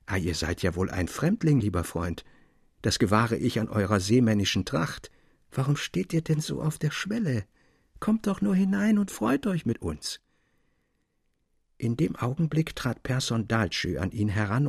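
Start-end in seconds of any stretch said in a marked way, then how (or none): 0.0-10.2 lightly voiced young woman, friendly and sweet; a hint of a gentle girl inviting him in; sweet smiling welcome. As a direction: welcome the stranger with a sweet smile. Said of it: "sprach mit süßem Lächeln".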